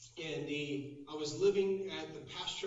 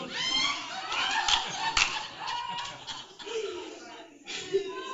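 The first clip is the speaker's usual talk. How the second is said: long, high mock wail; hammed-up bawling, loud and drawn out; mock weeping; 5 dB louder than usual. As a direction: imitate breaking down in sobs. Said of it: "fell in a corner and just wept".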